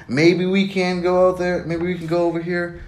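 a hammed-up hesitant suitor; mock wishy-washy guy. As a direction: mimic an unsure guy dragging his maybes. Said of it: "Don't say maybe".

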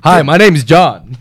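put-on half-hearted American businessman accent, slow and giggly; a mock Oklahoma businessman, laughing through it; a weak American accent. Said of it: "I'll do an American accent if you go".

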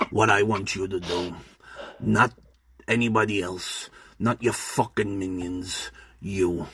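lightly voiced menacing gang boss; deliberate, measured film-villain monologue; Butcher Bill. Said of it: "That's my best Daniel Day-Lewis".

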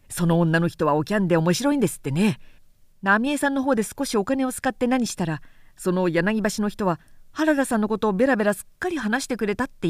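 quick, easy gossiping voice, lightly played; chatty young retainer. A retainer gossiping to Harada, quick and breezy. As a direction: rattle off the secrets breezily.

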